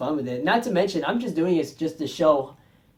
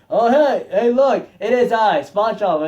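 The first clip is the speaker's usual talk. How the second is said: lightly raised, louder mock Squidward voice; Squidward quote; 4 semitones higher, 6 dB louder than usual. Reviewer quoting Squidward's reveal, lightly acted. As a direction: ham up a sly hello.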